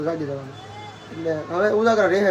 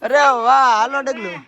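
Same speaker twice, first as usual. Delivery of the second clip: delighted exclaim; 7 semitones higher, 8 dB louder than usual. Real, not acted. Admiring child's outfit.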